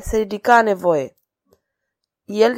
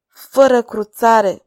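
grumbling; 2 semitones higher, 6 dB louder, much slower than usual. Acted. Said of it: "bombăni Tribulet".

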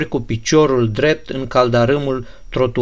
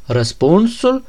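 pressing question; 6 semitones higher, slower than usual. Acted. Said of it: "îl asaltă Ganea".

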